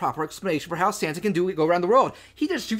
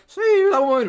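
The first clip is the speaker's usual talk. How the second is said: higher, louder villain cry; villain yell; 10 semitones higher, 4 dB louder than usual. Retold or imitated. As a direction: bark it out, chainsaw in hand. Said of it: "snaps the chainsaw and is like".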